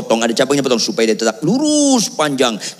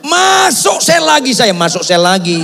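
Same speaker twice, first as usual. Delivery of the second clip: mock lament; 12 semitones higher, 4 dB louder than usual. Preacher recalling being jailed again, loud mock lament. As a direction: stretch it into a hammed-up cry of dismay.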